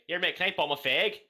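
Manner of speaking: cheery British mate asking; British slang. Shown as a demonstration. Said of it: "You'd say".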